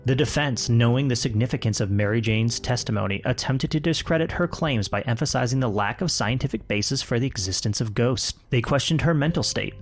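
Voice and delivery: measured true-crime narration; story narration. A narrator's reading. Podcaster telling co-host of the trial, measured narration. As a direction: read it out as a polished account. Reads the written story aloud.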